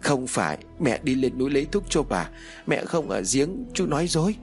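put-on high child's protest, climbing to an accusation; trembling child. A narrator's reading. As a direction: protest fearfully, pitched high throughout. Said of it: "Trinh run rẩy đáp lại". (giọng trẻ sợ hãi đáp lại, cao dần)

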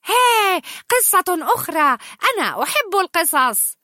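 high, loud gleeful cry; excited. Acted. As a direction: Olaf bursting with delight at another story. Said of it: "وقد أصبح مفعما بالحماس".

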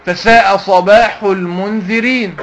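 slow recitation, المنذرين as "al-mundhirīn"; mistaken reading. Shown as a demonstration. Teacher quoting another faulty reciter, mistaken reading. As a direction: kasra on the dhal of المنذرين, drawn out. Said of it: "زي واحد تاني يقول مثلًا".

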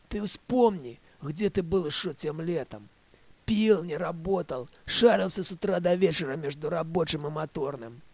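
loud, heated nagging tirade; angry scolding. Acted. Svetka scolds Vek about the trip, loud and angry. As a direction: tear into him like a fed-up woman.

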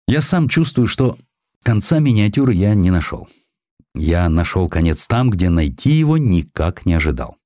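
ordinary delivery

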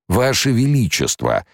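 high, drawn-out pleading whine; plaintive drawl. A narrator's reading. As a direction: beg the emperor pitifully. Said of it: "жалобно протянул барон". (барон жалобно тянет, умоляя императора)

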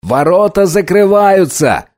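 high, slow urgent call; shouted. Acted. Riley shouting as the gates close, desperate. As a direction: shout it with despair breaking through. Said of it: "крикнул Райли".

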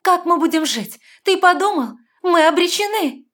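high, loud wail; despairing cry. A narrator's reading. Heroine despairing.

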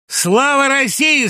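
sudden shout. A narrator's reading. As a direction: bellow the toast at the whole camp. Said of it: "закричал вдруг злобный".

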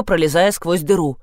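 ordinary delivery

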